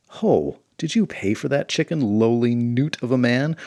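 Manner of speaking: loud bombastic challenge; pompous hero. Acted. Swordsman confronting the poor man, pompous loud challenge. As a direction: bellow at the lowly peasant.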